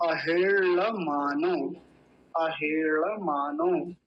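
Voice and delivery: अहेड़मानो slow, ड़ said like a retroflex l; tongue curled up for the ळ in अहेड़मानो; careful Sanskrit. Shown as a demonstration. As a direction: retroflex ळ demo. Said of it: "ये ल जैसा उच्चारण होता है".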